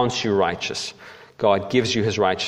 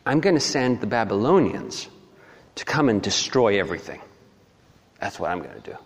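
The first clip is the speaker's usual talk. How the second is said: lightly voiced, matter-of-fact God; God answering; 2 semitones lower than usual. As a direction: announce the plan calmly. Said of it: "He says".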